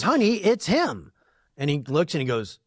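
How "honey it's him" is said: high, slow, thrilled whisper-to-husband tone; mock excited wife. Older woman at dinner telling her husband she spotted the host, high and thrilled. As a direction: nudge your husband, he's here.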